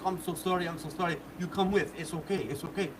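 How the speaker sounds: soft, hurried reassurance; imitated quiet pleading; apologetic coaxing. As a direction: play someone gently talking a friend into it. Driver apologising, coaxing him along.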